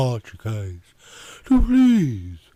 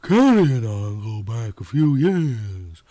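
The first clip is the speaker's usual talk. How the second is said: lazy Southern woman explaining; 3 semitones lower than usual. Acted. Yvonne's voice continues.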